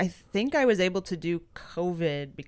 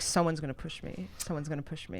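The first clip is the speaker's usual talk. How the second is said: anxious mutter; 4 semitones lower, 10 dB quieter, faster than usual. Retold or imitated. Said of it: "Then I'm like".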